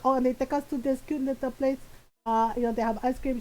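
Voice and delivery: lightly imitated Filipino mom; chatty mom with a Filipino accent; mom's Filipino accent. Mom telling of an outing, in her Filipino accent. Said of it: "in my mom's voice".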